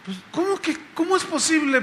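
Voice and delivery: high, incredulous retold question; baffled. Pastor echoes the woman's complaint, baffled and high-pitched. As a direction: echo her question in disbelief. Retells his baffled reaction to her.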